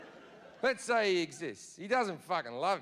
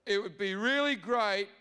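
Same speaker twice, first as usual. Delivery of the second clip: God wheedling for one more favour; God pipes up; 2 semitones higher than usual. Retold or imitated. God asking the partygoers to sing about him, wheedling. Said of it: "He pipes up again".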